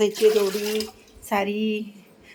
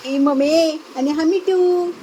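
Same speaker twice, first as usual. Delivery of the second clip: doting on the parrot; 4 semitones higher, 3 dB louder, slower than usual. Real, not acted.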